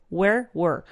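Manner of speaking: "Where" then "were", the vowel shifting a little; where versus were. Shown as a demonstration. Teacher contrasts "Where" and "were" for Spanish students. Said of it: "Varía un poco la pronunciación".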